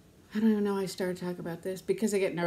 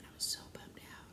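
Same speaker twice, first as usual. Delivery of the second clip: very soft, almost whispered; low-energy, barely voiced confession; subdued admission; 15 dB quieter than usual. Real, not acted. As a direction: let it out under the breath. Repeats how bummed she was.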